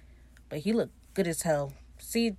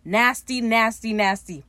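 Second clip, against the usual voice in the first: mock disgust; 3 semitones higher, 5 dB louder, slower than usual. Real, not acted. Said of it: "There was no need for that".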